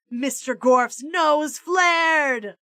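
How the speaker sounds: usual speaking voice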